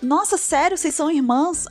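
surprised friend. Retold or imitated. Friend asking her whether they are sisters, surprised. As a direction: imitate an astonished friend. Friend's amazed question, retold.

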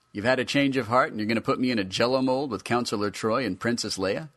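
high, eager figure voice; hopeful toy voice. Acted. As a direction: ask with naive eagerness.

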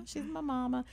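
put-on little five-year-old. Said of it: "Like I'm a little five-year-old".

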